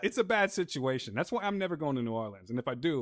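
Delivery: playful Cajun warning; put-on Cajun voice; Cajun accent. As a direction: warn like a Cajun local. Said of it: "I'm trying to do a Cajun voice".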